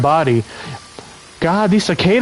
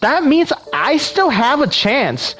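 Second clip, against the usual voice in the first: put-on Valley Girl voice; 3 semitones higher than usual. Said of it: "Do a Valley Girl voice?".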